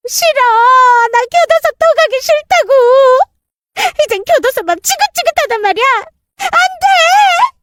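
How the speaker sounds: high, whining protest ending in a wail; whining refusal. Acted. Dragged-off stepmother wails that she won't go back to prison. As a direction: refuse like a cornered child.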